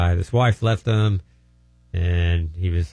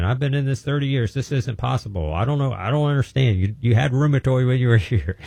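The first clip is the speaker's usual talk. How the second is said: baffled doctor; 4 semitones higher than usual. Retold or imitated. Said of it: "The doctor kept saying".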